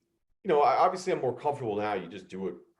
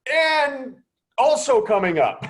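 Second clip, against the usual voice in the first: much higher, squeaky panic; panicked filler; 8 dB louder, slower than usual. Retold or imitated. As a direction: scramble to fill dead air in a panic. Panicked filler after producer's alarm.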